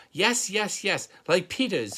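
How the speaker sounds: put-on high, loud toddler holler. A narrator's reading. Toddler demanding loafers like his brother, high holler. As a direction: holler it, insisting. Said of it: "Fudge hollered".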